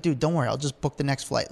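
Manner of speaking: imitating a laid-back, unbothered surfer; easygoing reassurance, tossed off quietly; chill. Surfer reassures driver after missing his flight, chill. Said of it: "Kelly was so chill about it".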